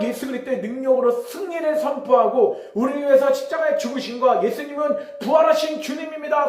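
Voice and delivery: high-pitched fervent declaration; re-enacted victory proclamation; proclaiming in prayer. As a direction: preach it out with rising force. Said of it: "선포하기 시작했어요".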